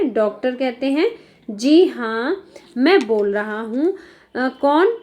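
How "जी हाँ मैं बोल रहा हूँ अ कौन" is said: slow, measured doctor answering the phone; lightly voiced doctor taking a call. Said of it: "ये doctor की line है". (धीमे ठहरे स्वर में डॉक्टर)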